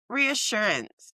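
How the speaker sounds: reading out the looked-up word, slowly sounded "Reassurance"; "Reassurance" drawn out slowly, ending in -ance; correct pronunciation. Shown as a demonstration. Checking the word aloud for the co-host, careful pronunciation. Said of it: "I'm looking it up".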